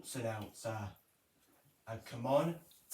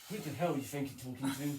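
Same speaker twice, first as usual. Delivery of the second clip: fast, lightly voiced cross mum; Mum impression; much faster than usual. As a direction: rattle it off like an annoyed mum. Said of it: "Very good impression".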